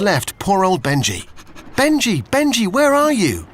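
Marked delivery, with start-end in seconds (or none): 1.8-3.5 high, loud calling out; shouting. Acted. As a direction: call out across the harbour. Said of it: "shouted Olivia".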